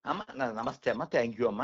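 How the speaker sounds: lightly acted deferential greeting; polite thanks. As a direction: thank her respectfully, a little subdued. Voices polite thanks to a neighbour.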